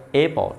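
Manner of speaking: অ্যাপল with the final l let go lightly; soft released ending. Shown as a demonstration. Teacher shows class the word's ending, soft released অ্যাপল. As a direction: release the end of অ্যাপল gently. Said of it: "ছেড়ে দিতে হয়".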